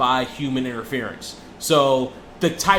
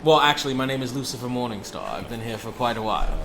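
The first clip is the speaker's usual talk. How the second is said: badly faked British accent, sinking lower; 3 semitones lower, faster than usual. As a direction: put on a hammy British accent. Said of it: "That's my worst British accent".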